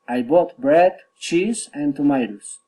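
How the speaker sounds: enumerating, items climbing until a falling "tomatoes"; rising list intonation. Shown as a demonstration. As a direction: lift "bread" and "cheese", drop on "tomatoes". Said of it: "rising intonation".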